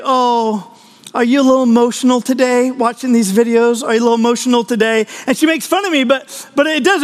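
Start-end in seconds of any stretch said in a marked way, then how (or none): 0.0-3.8 gently mock him for tearing up; teasing wife. Wife teasing her husband over TV tears, mock pity. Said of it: "she's like". 3.8-5.1 quick teasing repeat; teasing wife. Retold or imitated. Wife repeating her tease to her husband, rushed mock pity. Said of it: "she's like".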